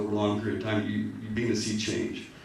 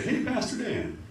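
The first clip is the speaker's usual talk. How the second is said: imitating kids in a high-pitched call; little kids hailing their pastor, much higher; little kids greeting; 14 semitones higher, slower than usual. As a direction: mimic a child's high, friendly hello. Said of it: "a bunch of little kids say".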